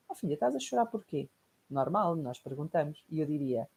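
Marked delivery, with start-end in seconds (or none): 0.1-1.3 gentle mother. Retold or imitated. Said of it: "O que é que seria o feminino".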